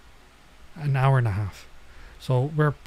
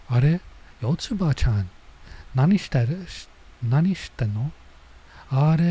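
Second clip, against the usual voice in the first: surprised neighbor; 2 semitones higher than usual. Acted. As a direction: call out in mild surprise. Reading neighbor's lines in character.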